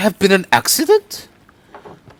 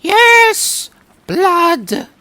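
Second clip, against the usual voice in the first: eager yes; 10 semitones higher, 4 dB louder than usual. Acted. Character eager for gory details.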